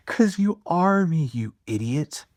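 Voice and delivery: high, slow tease through laughter; laughing retort. Acted. God answering the speaker's question, laughing and high.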